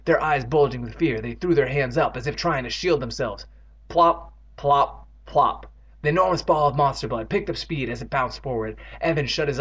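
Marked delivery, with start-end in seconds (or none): 3.9-5.7 spaced, popping plop noises; bouncing plops. A narrator's reading. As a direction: drop each plop separately, like a bounce. Narrator imitates bouncing monster.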